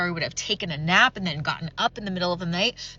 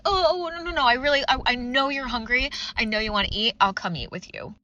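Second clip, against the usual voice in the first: mock panicked backpedaling; 2 semitones higher than usual. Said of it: "backpedaled and be like".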